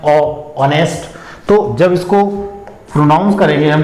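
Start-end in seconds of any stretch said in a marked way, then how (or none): 0.0-1.2 slow ओ by itself, then ऑनेस्ट; ऑनेस्ट introduced by its vowel sound; opening vowel isolated. Shown as a demonstration. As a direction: draw out the first vowel, then say ऑनेस्ट without h. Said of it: "ये वाली sound आ रही है इसमें".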